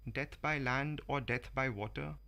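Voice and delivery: slow, measured poetry reading; poem recital. Acted. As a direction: savour each rhymed line, unhurried. Reads a Vikram Seth poem.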